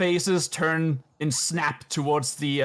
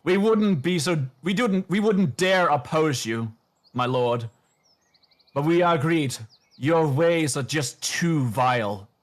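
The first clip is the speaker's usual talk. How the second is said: blob of flesh voice; 2 semitones higher than usual. Acted. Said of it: "And the blob of flesh goes on".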